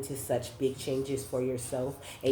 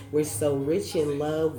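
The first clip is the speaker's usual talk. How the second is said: drawn-out, louder lyric reading of "We're so rich in love"; lyric read slow and proud; 2 semitones higher, 5 dB louder than usual. Shown as a demonstration. Reader quotes the song lyric to the viewer, slow and emphatic. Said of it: "this is what I'm saying".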